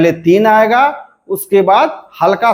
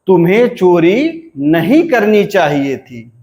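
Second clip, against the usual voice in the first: "नहीं" raised highest, then "करनी चाहिए थी" falls; интонация 2-3-1. Shown as a demonstration. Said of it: "दो, तीन".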